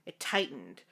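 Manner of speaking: measured fanfiction read-aloud; story narration. A narrator's reading. Narrator telling the housekeeper's story, measured read-aloud. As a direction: narrate it evenly, like an audiobook.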